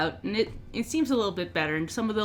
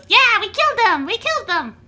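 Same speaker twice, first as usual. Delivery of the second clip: high, loud gloating shout; little orc yelling in triumph, much higher and louder; gleeful shout; 10 dB louder than usual. Acted. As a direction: crow it out like a little thug cheering on his boss. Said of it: "Notch goes".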